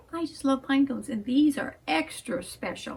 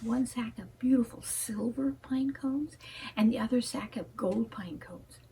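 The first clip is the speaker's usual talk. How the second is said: bedtime-story whisper; whispered storytelling. A narrator's reading.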